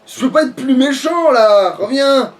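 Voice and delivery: high, slow fake sob of despair; mock crying. Gamer mock-sobbing about his villain past. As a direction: whine it like a wounded villain.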